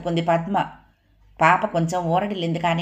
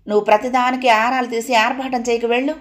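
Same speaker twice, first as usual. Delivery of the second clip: higher, brusque dismissal; curt and angry; 5 semitones higher, 3 dB louder than usual. A narrator's reading. Padma brushing off her sister-in-law, higher and curt. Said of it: "అంది పద్మ విసురుగా".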